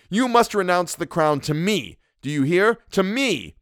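high, imperious demand; triumphant cry. A narrator's reading. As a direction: insist fiercely on your claim. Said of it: "I cried with a laugh of triumph".

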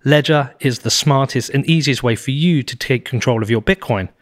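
smooth steady sponsor read. Acted. Podcast host reading sponsors, smooth ad read. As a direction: sell the products like a podcast ad.

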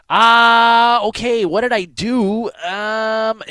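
high, loud flustered yelp of confusion. Retold or imitated. Grilled by an angry border officer, a flustered high blurt. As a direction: blurt it out, caught off guard.

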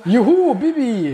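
high, drawn-out happy cheer; laughing cheer. Real, not acted. Cheering a regular's shout-out.

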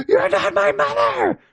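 very high, slow mock scream. Damien screaming at the demon, very high, slow mock scream. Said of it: "he's screaming and crying".

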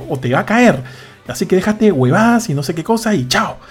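ultimátum de padre, medio actuado, tono algo alto; regaño imitado. Retold or imitated. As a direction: despacha al hijo con enfado fingido. Padre termina el regaño al hijo. (regaño de padre harto)

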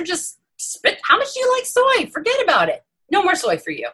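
lightly voiced stern doctor, rising sharply at the end; a hint of a strict doctor laying down the rules; old doctor self. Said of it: "would say something like me".

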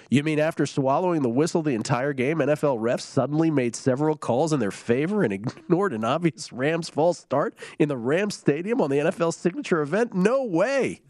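mock disbelief, pitch climbing to the end; sarcastic. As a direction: read it as a sarcastic tweet, building to a high incredulous finish. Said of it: "sarcastically tweeting me".

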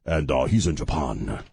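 low-pitched, badly faked Asian accent; hammy fake Asian accent. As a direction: put on a clumsy mock Asian accent. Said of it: "doing that really bad Asian accent".

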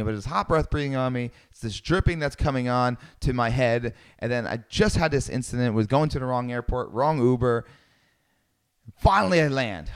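ordinary talk, nothing marked

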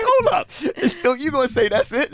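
high, loud, disbelieving challenge; retelling confronting his wife about the apology; incredulous mock outrage. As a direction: hold up, push back in disbelief.

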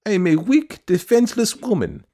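high, complaining woman's voice; complaining widow. A narrator's reading. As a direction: whine that she is defenseless. Petitioner complaining to the official.

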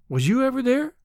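wistful. Acted. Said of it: "she said wistfully".

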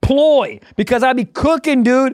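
casual sponsor read with bursts of hype; lightly hyped ad read. Acted. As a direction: sell the meal kit like a buddy, a bit pumped. Reads a HelloFresh ad.

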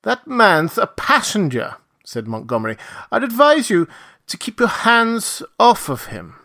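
high, firm, measured warning; stern warning. A narrator's reading. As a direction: warn him off firmly. Montgomery warns captain.

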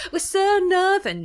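high, loud, hammed-up northern English accent. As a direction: put on a laughing, over-the-top northern English accent. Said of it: "That's a terrible northern accent".

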